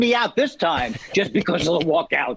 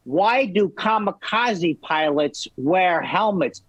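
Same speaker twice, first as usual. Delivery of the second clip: comic setup; 2 semitones lower, slower than usual. Retold or imitated. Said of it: "he would say".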